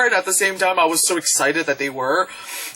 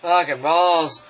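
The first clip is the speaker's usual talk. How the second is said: Godzilla; slower than usual. Retold or imitated. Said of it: "he's just like".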